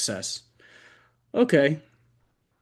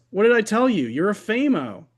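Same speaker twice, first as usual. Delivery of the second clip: excited surgeon; 7 semitones higher than usual. Acted. Surgeon praising narrator.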